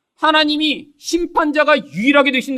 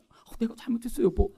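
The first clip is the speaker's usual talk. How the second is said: earnest apology; 9 dB quieter than usual. Shown as a demonstration. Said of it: "표정도 더, 정말".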